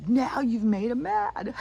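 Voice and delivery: high, slow, eerie warning; spooky warning. Retold or imitated. Husband warning the cop the devil is angry, slow and eerie. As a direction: draw it out, high and uncanny. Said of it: "And he goes".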